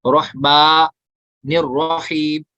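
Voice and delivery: रहमानिर रहीम drawn out very slowly, heavy रॉ; slow recitation. Shown as a demonstration. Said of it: "अलिफ मद्दा खींचेंगे".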